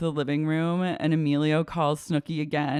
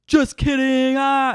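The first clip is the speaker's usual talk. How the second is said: high, louder jokey take-back; mock teasing boyfriend; 9 semitones higher, 8 dB louder than usual. Emilio on the phone telling Snooki it was a joke. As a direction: toss it off like a prank. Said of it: "he was like".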